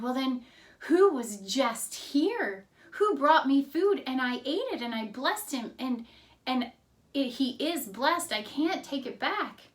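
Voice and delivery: mildly hammed-up dismay at being tricked; upset, overwhelmed father. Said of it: "he trembled very exceedingly".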